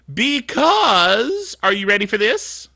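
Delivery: ordinary talk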